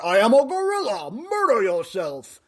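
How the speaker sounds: hammed-up conspiracy rant; Alex Jones impression. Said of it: "I'd look like Alex Jones when he's talking about".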